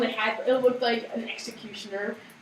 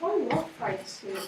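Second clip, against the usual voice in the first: sarcastic; 6 dB quieter, slower than usual. Shown as a demonstration. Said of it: "Read it sarcastically".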